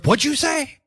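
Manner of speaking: high, stunned mock voice; acted Hangman question. Hangman stunned, asking Swerve to repeat himself. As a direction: ask it in disbelief as Hangman. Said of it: "And Hangman goes".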